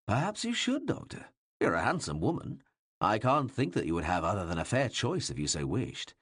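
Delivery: a king teasing his doctor, amused. Acted.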